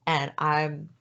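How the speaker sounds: holding back tears as she talks; teary. Real, not acted. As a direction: voice cracking, close to tears. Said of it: "hear it in her voice as she's cracking and crying".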